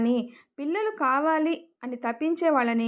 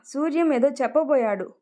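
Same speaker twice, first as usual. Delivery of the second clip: usual speaking voice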